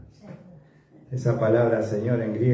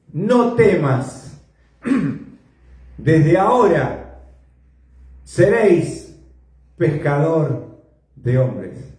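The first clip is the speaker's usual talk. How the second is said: voice of Jesus; 4 semitones higher, 4 dB louder, slower than usual. Acted. Jesus' words to Simon.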